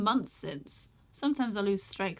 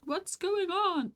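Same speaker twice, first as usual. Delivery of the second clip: high and slow in disbelief; stunned question; 10 semitones higher, much slower than usual. Acted. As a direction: draw it out, baffled. Sudden snow in July.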